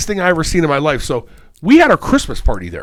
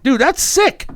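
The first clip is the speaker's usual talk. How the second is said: higher, impressed praise; praising dad for sneaking out; mock impressed; 11 semitones higher, slower than usual. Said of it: "I was like".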